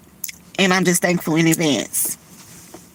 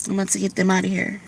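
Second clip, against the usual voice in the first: softer and faster, almost to herself; quieter, quicker repeat; 6 dB quieter, faster than usual. Real, not acted. Vlogger repeating to herself that she's leaving, quietly and quickly. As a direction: mutter it again under her breath, quickly.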